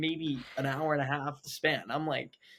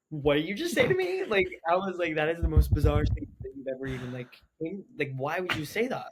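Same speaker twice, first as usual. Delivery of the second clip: retold offended outburst; 2 semitones higher, 3 dB louder than usual. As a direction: act out being affronted at a friend. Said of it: "I was offended".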